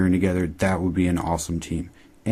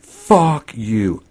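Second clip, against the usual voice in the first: louder and higher, spat out at the screen; real outburst; 4 semitones higher, 6 dB louder than usual. Real, not acted. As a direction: snap it at the character. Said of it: "I said that out loud".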